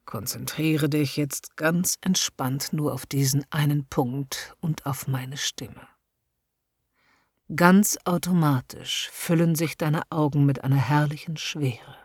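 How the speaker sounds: hypnotic induction. A narrator's reading. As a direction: lull her into heaviness, slowly. Hypnotist leads trance induction.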